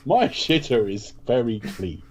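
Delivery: slow, deliberate spoof ad delivery; lightly hammed-up actor selling bleach; mock commercial tagline, drawn out; Benedict Cumberbatch. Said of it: "when he does a Domestos commercial".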